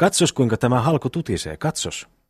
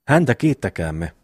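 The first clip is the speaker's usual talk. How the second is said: mocking echo. Eero parrots his pious brother's call for thanks, lightly mocking. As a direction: echo the thanks with a touch of mockery. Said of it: "pilkkaa ja virnistystä taas".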